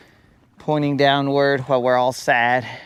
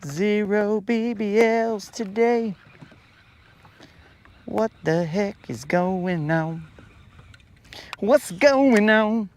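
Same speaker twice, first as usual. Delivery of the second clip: mock lament; 6 semitones higher, much slower than usual. No fish caught, mock lament.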